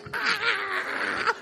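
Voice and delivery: high laughing imitated scream; mock woman's shriek. Pastor imitating a woman screaming in church, half laughing. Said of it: "Ela sai gritando".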